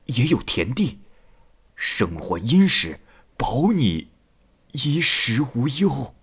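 coaxing reassurance with unhurried pauses. A narrator's reading. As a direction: soothe her gently, phrase by phrase. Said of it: "王十八进舱劝解道". (耐心劝慰，慢慢哄着说)

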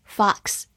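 "fox" with a wide-open American O; American pronunciation. Shown as a demonstration. Teacher shows learners the American variant, "fox" with an open O. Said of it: "美式发音字母O口型比较大".

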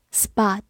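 "spot" with a wide-open American vowel; American pronunciation. Shown as a demonstration. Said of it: "美式发音会发的口型比较大". (美式发音，"spot"口型张大)

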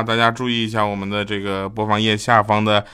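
ordinary talk, nothing marked

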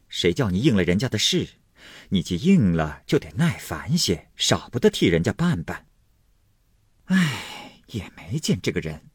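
mildly reproachful coaxing; forced conciliation. Acted. Wife smoothing over her husband's temper despite herself, mildly placating. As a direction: swallow annoyance and placate him. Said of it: "勉强陪笑说道".

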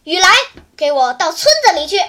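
father barks his son home; father's stern order. Acted. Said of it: "爸爸在一边瞪着眼叫道". (父亲瞪眼厉声命令)

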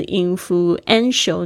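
influential slowly, stressing the "en" syllable. Shown as a demonstration. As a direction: lean on "en" in influential, taking it slowly. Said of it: "你就发现它的重音是在".

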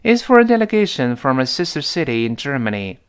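"for a" and "from a" each run together as one word; teacher's connected reading, linking "for a"; linked read-along. Shown as a demonstration. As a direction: model the sentence with "from a" linked like "frommer". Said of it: "跟老师再读一遍".

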